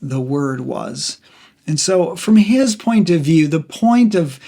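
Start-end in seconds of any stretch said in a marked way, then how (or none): 0.0-1.2 very slow, each phrase set apart; a preacher slowing down to land the key verse; slow emphatic reading. Shown as a demonstration. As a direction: let "What God was, the Word was" land slowly, phrase by phrase. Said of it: "that's to say".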